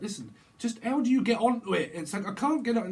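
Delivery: frustrated. Acted. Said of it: "very frustrated".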